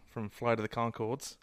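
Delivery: slow, badly faked New Zealand accent; clumsy mock New Zealand accent; terrible New Zealand accent. Shown as a demonstration. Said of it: "that's a terrible New Zealand accent".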